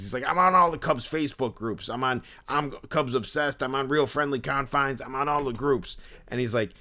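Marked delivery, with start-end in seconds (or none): 0.3-6.0 lightly imitated in-your-face collector; intense Philly dude. Obsessed fan listing his groups, lightly voiced Philly dude. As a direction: rattle off boasts as a Philly guy. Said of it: "the impression that I was doing of him".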